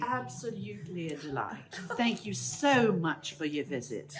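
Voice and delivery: put-on British accent. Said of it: "your accent was perfect".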